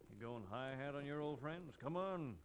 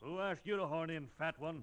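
sneering insult; 3 semitones higher, 6 dB louder than usual. Acted. Outlaw insults Pancho.

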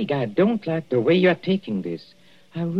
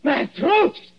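high strained panic, choking; rasping strained mutant; 12 semitones higher than usual. Acted. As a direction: gasp it out as the throat closes. Poisoned man chokes in panic.

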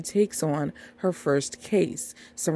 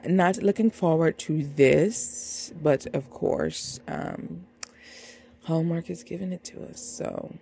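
sarcastically unenthusiastic. Real, not acted. Host tells viewers about a movie they dread, unenthusiastic. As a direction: drag it out with no excitement, trailing off. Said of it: "Can you just hear the excitement in my voice".

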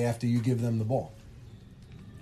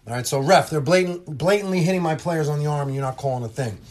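a louder, higher complaint at the ref; mock angry coach; 4 semitones higher, 4 dB louder than usual. Coach protesting to the ref, raised mock complaint. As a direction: play the coach who is fed up with calls.

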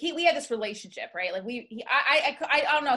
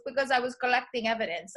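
lightly imitated Puerto Rican wife; a hint of her Puerto Rican accent. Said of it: "pretending to be the Puerto Rican wife".

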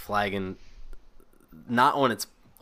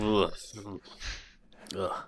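put-on drunken groan; 7 dB quieter than usual. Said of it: "you just hear him".

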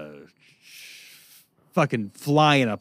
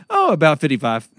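louder, casual shrug of a talking sign; voicing a road sign; 5 dB louder than usual. Mocking the speed sign to a friend, a casual shrugging voice. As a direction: lightly voice the sign as if it barely cares. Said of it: "the sign on the side of the road says".

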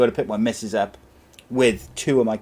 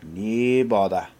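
Scottish "No bother"; much slower than usual. Retold or imitated. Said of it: "He'd have been like".

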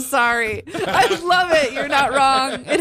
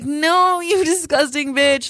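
higher-pitched mock scolding of a dog; pleading, pitched-up telling-off; 5 semitones higher, slower than usual. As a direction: scold the dog in exasperation, half joking. Acting out scolding her dog.

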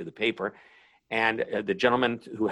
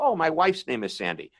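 mock-surprised joke, a bit higher; lightly higher, playful retold quip; joking delivery; 5 semitones higher than usual. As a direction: toss it off as a running gag. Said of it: "it's funny that the way I say it".

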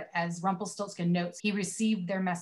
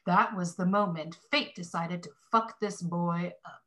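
Morgan Freeman narration. Retold or imitated. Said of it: "Insert Morgan Freeman narration here".

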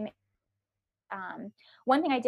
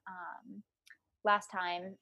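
breathy whisper, nearly gone; whispered tail of the sentence; whispered aside; 7 dB quieter, much slower than usual. Real, not acted. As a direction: drop to a whisper as an afterthought. Aside trailing off.

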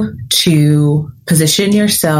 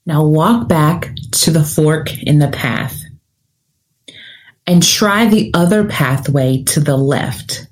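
sleep story narrator. Acted. Leads a guided visualization.

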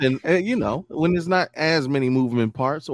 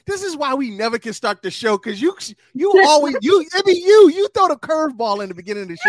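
high-pitched worked-up protest; rising into loud, high exasperation; exasperated complaint; 11 semitones higher, 4 dB louder than usual. Real, not acted. Host blames co-host for derailing the show, exasperated.

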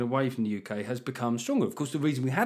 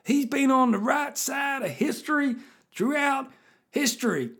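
put-on high, loud American redneck accent; 11 semitones higher, 4 dB louder than usual. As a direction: play a rowdy American redneck. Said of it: "put a redneck accent on".

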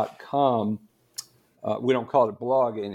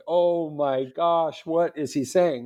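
slow, gasping mock shock; shocked churchgoers; 4 semitones higher, slower than usual. Blue-haired women in the front row, aghast.

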